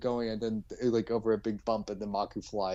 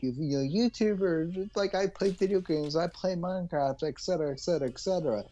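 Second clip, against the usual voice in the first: a higher, sing-song parody of a YouTuber; lightly hammed-up casual influencer; mock YouTuber; 7 semitones higher than usual. Mocking YouTubers to his co-host, a mock influencer voice.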